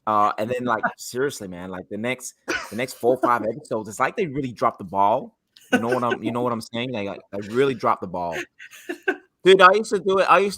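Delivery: put-on American accent. Asked to explain the show as an American, mock American accent. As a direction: play at talking like an American. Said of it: "talk in an American accent".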